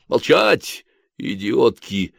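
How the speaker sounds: mild snapped order; understated bark at the women. Acted. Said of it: "рявкнул Хвостищев". (слегка рявкнуть)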